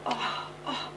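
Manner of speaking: high, excited coaxing of a tutor; eager coaxing. Retold or imitated. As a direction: chivvy him on like an eager tutor. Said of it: "o'n i fel".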